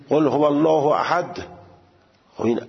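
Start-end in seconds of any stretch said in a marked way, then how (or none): 0.1-1.5 قل هو الله احد with a hard final احد; over-hard letter. Retold or imitated. Teacher mimicking careless reciters. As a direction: clamp احد tight. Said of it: "میگه".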